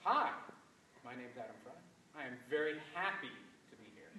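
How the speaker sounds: forced, bouncy inflection; hammed-up enthusiasm; overdone eager intro. Shown as a demonstration. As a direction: push the phrase too hard, socially awkward. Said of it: "Okay, what about this?".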